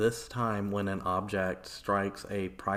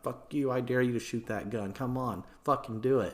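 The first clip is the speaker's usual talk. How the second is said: higher-pitched goading jeer; mild mock yell, egging on; mock screamed insults; 4 semitones higher than usual. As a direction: dare them like a heckler in a mob. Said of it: "they're all screaming insults back and forth".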